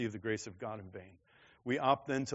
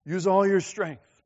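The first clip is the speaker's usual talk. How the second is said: slow urging; 6 semitones higher, 9 dB louder, slower than usual. Retold or imitated. Father repeating.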